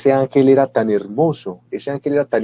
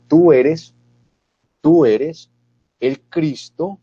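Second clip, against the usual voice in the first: forceful confession; 3 semitones higher, slower than usual. Acted.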